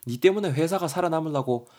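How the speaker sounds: acted nagging, pitch lifted, rising end; mock-berate someone, pressing each point; hammed-up scolding in Korean dialect; nagging telling-off. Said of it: "대거이를 겁나 쪼고 있죠".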